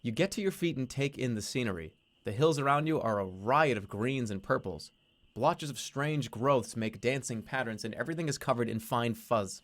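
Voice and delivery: steady storyteller reading the game text; story narration. A narrator's reading. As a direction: read it like a narrator setting the scene. Reading a text adventure aloud.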